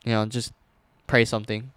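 casual tough-one act; nonchalant. Retold or imitated. Trying to be the tough one at bedtime, nonchalant. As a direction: play it cool, like nothing is wrong. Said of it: "I was talking like that nonchalant".

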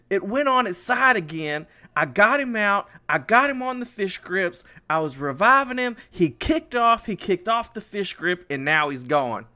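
high, urgent blow-by-blow explanation; flustered retold excuse. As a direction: imitate a brother pleading his case. Brother's excuse acted out.

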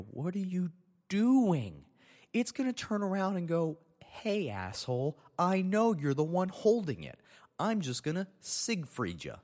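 high-pitched, drawn-out mock outrage; exasperated retold scolding. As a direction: scold mom in a high, incredulous voice. Retells scolding his mom.

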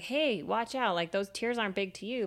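a hint of a tiny creature calling up; mock alarmed warning. Ant warns crying Psyche about her tears, mock alarm.

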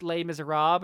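"Les Miserables" said French-style, lay-miz-er-ahb; French pronunciation. Acted. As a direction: silent endings in "Les Miserables". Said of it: "it's, uh, pronounced".

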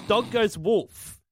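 deadpan lyric reading. Shown as a demonstration. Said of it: "the speaker read the lyrics".

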